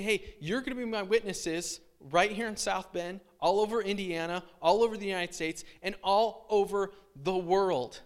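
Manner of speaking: rally them, growing bigger; excited commission. Retold or imitated. Jesus sending disciples out, rising excitement.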